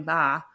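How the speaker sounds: "Ba" with no closing consonant; child's unfinished word, "Ba"; open-ended syllable. Shown as a demonstration. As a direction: demonstrate "Ba" left open on the vowel. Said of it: "instead of going".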